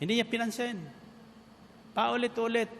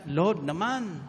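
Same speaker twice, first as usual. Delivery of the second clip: pitched-up annoyed complaint, lightly voiced; exasperated disciples; 6 semitones higher than usual. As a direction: whine at Jesus to send her away. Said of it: "Kaya sabi ng mga alagad".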